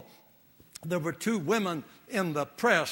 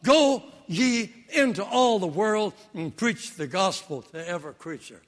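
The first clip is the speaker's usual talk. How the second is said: reading King James scripture; 5 dB louder than usual. Retold or imitated. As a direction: ring out the old King James words. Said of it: "listen to it in".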